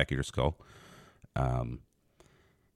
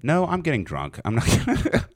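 laughing mock refusal; 11 semitones higher, 4 dB louder than usual. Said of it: "and I'm like".

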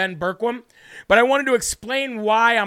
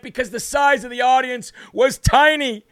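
mocking. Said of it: "said the fake news media".

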